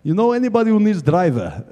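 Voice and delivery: lightly imitated Russian accent; mock Russian-accented question; Russian-accented mechanic. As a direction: ask it as a Russian mechanic would. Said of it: "He's got a big Russian voice".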